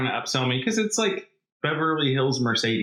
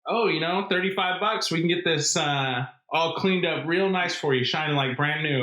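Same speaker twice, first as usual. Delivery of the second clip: lightly voiced salesman, a bit higher; service guy pitch; 3 semitones higher than usual. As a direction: imitate a service guy's easy upsell. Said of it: "the service guy".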